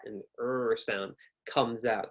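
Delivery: slow rounded er sound; R sound demo. Shown as a demonstration. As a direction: let the er come out with a fat tongue. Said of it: "when you make the er sound".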